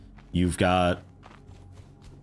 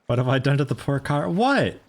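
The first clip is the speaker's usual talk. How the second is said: surprised; 6 semitones higher than usual. Real, not acted. Surprised at dented car.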